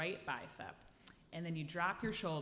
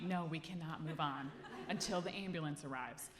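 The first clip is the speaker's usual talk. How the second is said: mock scolding. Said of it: "The room was telling me".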